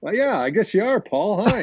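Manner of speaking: high, flustered, awestruck stammer; starstruck stammer. Retold or imitated. Hockey player opening the door to Paul Newman, high starstruck stammer. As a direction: squeak it out like meeting a movie star.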